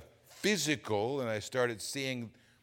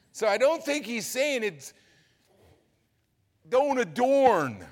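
high, loud preacher's cry; impassioned sermon delivery; full-force preaching; 10 semitones higher, 9 dB louder than usual. Real, not acted. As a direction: hammer it home from the pulpit.

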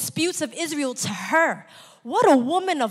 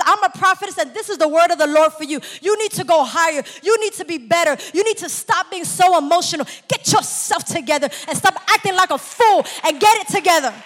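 louder, commanding rebuke ending in a shout; stern Deborah; 3 semitones higher, 5 dB louder than usual. Acted. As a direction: scold the weak brother into line. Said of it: "like a Deborah that says".

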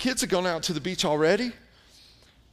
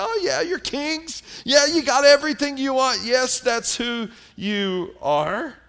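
mocking sarcasm; 3 semitones higher than usual. Paul mocking the Corinthians who think themselves kings, sarcastic. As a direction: sneer along with them, tongue in cheek. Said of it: "And Paul is mocking them".

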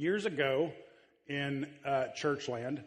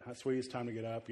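gentle wake-up; 2 semitones lower, 4 dB quieter, faster than usual. Retold or imitated. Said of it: "I'm trying to be gentle".

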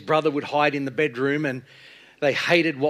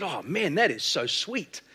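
higher, slow relish on each phrase; savouring delight; 6 semitones higher than usual. Retold or imitated. Brother tempting Jack after a swig of liquor, savouring delight.

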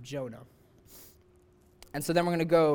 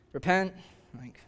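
begrudgingly; 3 dB quieter than usual. Retold or imitated. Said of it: "like, kind of begrudgingly".

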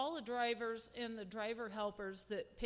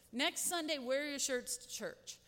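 put-on higher, brighter announcing voice to the kids; telling the kids; 4 semitones higher than usual. Leader telling the church kids to wear their new shirts, eager. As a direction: call it out to the children like good news. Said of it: "And I told the kids".

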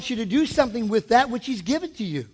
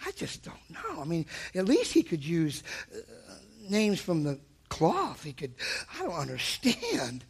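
a lightly voiced dismayed talk-show host, low and much softer; hushed, lower, fretting disbelief; half-hearted imitation of a fussy celebrity; Oprah Winfrey; 8 semitones lower, 12 dB quieter than usual. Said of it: "Oprah Winfrey said".

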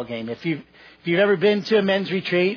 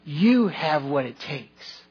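gentle, slower encouragement; encouraging coach. Retold or imitated. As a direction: reassure the boy like a kind coach.

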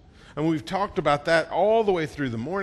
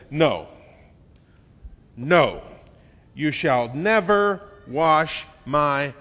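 loud, slow, firm no; a hard, drawn-out protest; emphatic refusal; 4 dB louder, slower than usual. Acted. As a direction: Peter flatly refusing, spaced out and loud. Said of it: "can't be more emphatic than the way that Peter said".

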